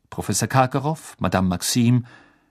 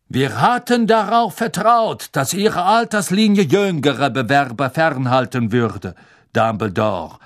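steely smile, louder; steely smiling; 4 semitones higher, 6 dB louder than usual. Acted. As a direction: speak with a cold steely smile. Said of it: "noch immer stählern lächelnd".

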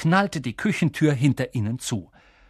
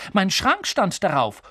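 higher, indignant insistence; angry; 5 semitones higher than usual. Acted. Boy citing the address as proof, indignant. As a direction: argue back with some heat. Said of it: "rief Harry zornig".

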